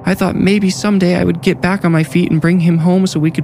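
a desperate nurse near tears; a mother crying over losing her boy; distraught young mother. Acted. Tess voiced, high and tearful.

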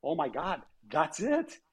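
recalling the moment it all clicked; sudden realization. Retold or imitated. Telling how he realized the answer, a flash of excitement. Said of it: "because I was like".

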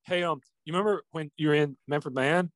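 lightly imitating an awkward fan interviewer; hesitant, starstruck mock interview question; Chris Farley. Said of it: "like the Chris Farley show".

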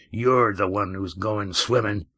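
lightly voiced big man, gritty and strained; straining threat. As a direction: growl it while lifting him. Red Ian's threat while fighting.

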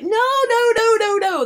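high, loud string of panicked no's; mock panicked protest, half laughing at herself; frantic refusal. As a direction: push the idea away with the voice jumping up high. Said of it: "And I'm like".

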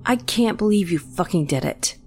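shocked outcry. Acted. Brother cut by his sister, shocked high outcry. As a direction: pitch jumps high in disbelief.

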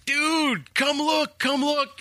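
high-pitched urgent excitement; excited calling out. Retold or imitated. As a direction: call a colleague over, thrilled. Acting running in, calling colleague over.

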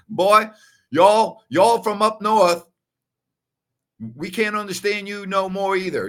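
high, loud Southern uncle; Southern drawl. Retold or imitated. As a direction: imitate an indignant Southern uncle. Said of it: "He had that Southern drawl".

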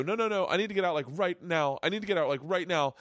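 begging the ride operator, mildly panicked; panicked plea. Retold or imitated. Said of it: "And I'm like, I go".

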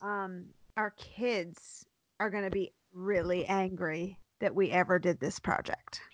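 hushed, breathy confession; whispering. Real, not acted. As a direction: whisper it like a secret fear.

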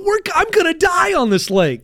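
high-pitched, hammed-up alarm; comic protest for dear life; mock panic. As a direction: wail it high, retelling your own fear. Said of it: "I told him".

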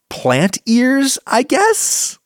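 wry doubtful aside. Real, not acted.

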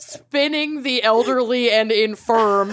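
half-laughing as she reads; laughing through words. Real, not acted.

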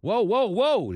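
high, loud stunned whoa, whoa, whoa. Real, not acted. Host reacting to the voicemail, stunned and loud. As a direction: pull up short in shock.

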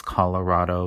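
Colorado with a Spanish A, as in "father"; Colorado, third vowel open like "rod"; Spanish-style vowel. Shown as a demonstration. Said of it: "much more Anglo pronunciation".

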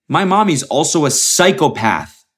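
lightly voiced talking dog; dog's perspective. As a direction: put on a slightly high dog voice. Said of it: "from the dog's perspective".

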